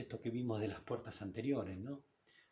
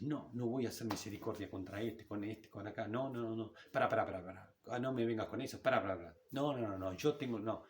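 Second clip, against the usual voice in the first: mildly irritated, rapid-fire protest; mock angry refusal. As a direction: act out someone indignantly waving off a request. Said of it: "reaccionás con enojo, decís". (enojo fingido, leve)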